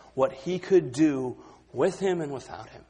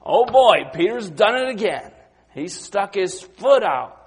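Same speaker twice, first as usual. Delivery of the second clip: disciples' exasperated thought; 5 semitones higher, 5 dB louder than usual. Retold or imitated. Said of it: "I'm sure they were thinking".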